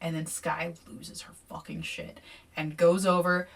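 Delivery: ordinary delivery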